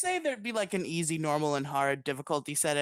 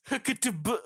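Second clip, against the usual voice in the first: laughing; 5 semitones higher than usual. Real, not acted. Laughing at backwards name.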